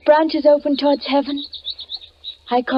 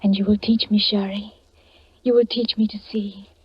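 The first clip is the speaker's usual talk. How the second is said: soft whispered words of love; tender whisper; 2 semitones lower, 3 dB quieter than usual. Acted. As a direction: breathe it to your beloved. Bride speaks tenderly to husband.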